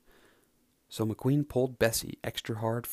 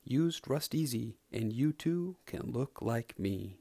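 forced cheerful. Acted. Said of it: "flashed a forced smile".

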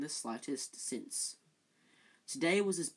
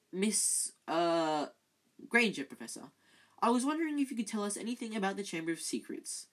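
clear voice; 5 semitones higher, 3 dB louder than usual. Acted. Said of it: "in a clear voice".

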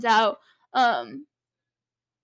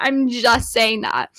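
slower, each word landed on "I'm just saying that"; slow pointed repeat; slower than usual. Shown as a demonstration. Telling viewers her theory, slowly and pointedly. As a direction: lean on it, take your time. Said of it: "repeated for emphasis".

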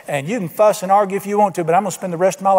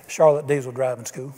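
deadpan joke; 5 semitones lower, 5 dB quieter than usual. Retold or imitated.

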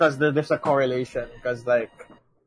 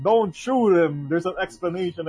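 calm him down, begging; a rapper's voice; 5 semitones higher than usual. Retold or imitated. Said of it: "and Doctor Dre's like".

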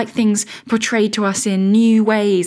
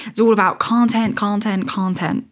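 a hint of an American accent, content content content; lightly mock an American guru; playful, half-hearted American accent; bad American accent. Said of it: "That's a really bad American accent".

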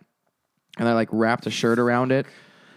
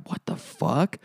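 breathless whispered what the fuck; whispered disbelief; 3 semitones higher, 4 dB quieter, slower than usual. Retold or imitated. Overhearing his dad on the phone, a stunned whisper. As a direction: hiss it under your breath, stunned. Hears mom on phone, shocked.

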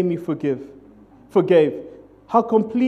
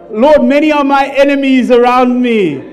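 loud, higher, laughing mock lament; mock psalm prayer; 6 semitones higher, 8 dB louder than usual. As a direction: ham up a wrathful psalm with a laugh. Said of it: "prayers out of Psalms".

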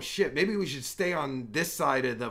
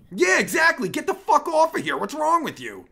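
much higher and louder, scolding; angry outburst; 10 semitones higher, 6 dB louder than usual. Real, not acted. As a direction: chase them off with a sharp yell. Telling off fifteen-year-olds on camera.

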